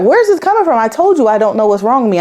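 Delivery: retold indignant comeback, starting high; defensive protest. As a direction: push back at the question, pitch jumping up.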